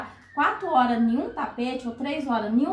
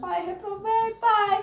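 mock sobbing through tears, high-pitched; 7 semitones higher than usual. Recalling speaking to their father after a test, acting out their past crying. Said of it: "aí eu chorando".

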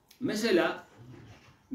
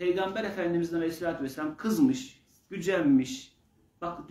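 normal talking voice

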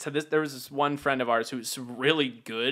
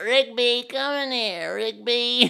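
faint, very high woman's voice calling out; 9 semitones higher than usual. Retelling how a drunk woman kept calling him from another room: imitating a faint lady's voice. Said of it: "this like faint lady's voice going Rigby".

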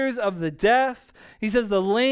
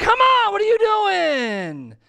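mock very high, stretched, swooping holler; 10 semitones higher, 4 dB louder than usual. Retelling yelling at the TV about the Red Sox, imitating his own yell. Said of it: "I was yelling at the TV yesterday".

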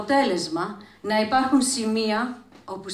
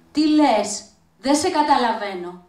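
loud yelling over roaring wind; 2 semitones higher, 5 dB louder than usual. In a boat amid roaring wind and waves, someone answers a woman, shouting over the wind. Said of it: "να φωνάζουν με όλη τη δύναμή τους".

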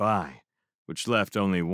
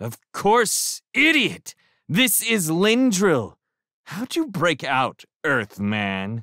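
loud, scornful, mocking, sneering jeer, pitched up; 9 semitones higher, 5 dB louder than usual. A man answers Thor's question and questions the escaped prisoner, sneering. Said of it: "The sneer he gave me".

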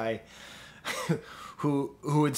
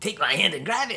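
goofy, harmless, high, silly put-on funny voice; 6 semitones higher, 4 dB louder than usual. Praising a funny guy's line delivery, repeating his line: funny voice, not menacing. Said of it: "kind of like a funny voice, not a menacing voice".

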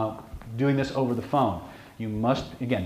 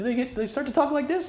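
squeaky chipmunk voice, much higher; 14 semitones higher than usual. Explaining vocal cues of deception, demonstrating raised pitch in a high squeaky chipmunk voice. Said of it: "They sound like chipmunks?".

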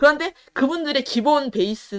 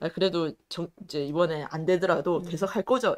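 ordinary delivery

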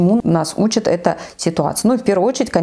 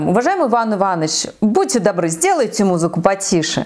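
firm, insistent, polite tone with swooping pitch. Showing how to make a polite request get heard: firm, slightly pressing. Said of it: "если вы твердым тоном... когда чувствуется твердость в голосе".

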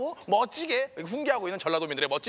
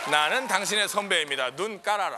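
usual speaking voice

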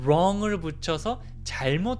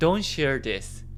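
heavy emphasis landing hard on don't; 4 semitones lower than usual. Practicing an English phrase, put the stress on the first word don't. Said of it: "앞에 강세 주면서".

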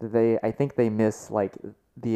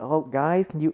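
put-on yelling, pitched higher; 6 semitones higher than usual. Imitating a guy in the background yelling at people: imitating someone yelling. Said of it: "yelling from the background".

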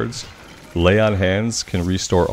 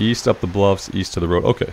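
normal talking voice

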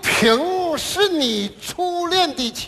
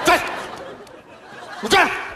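long scolding rant ending in a yell. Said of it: "我爸那给我骂呀".

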